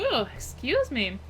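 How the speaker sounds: talking with the hiccups; speech broken by hiccups. Real, not acted. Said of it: "I have the hiccups right now".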